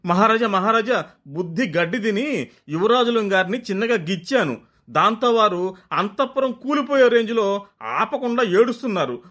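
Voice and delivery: flustered queen. Acted.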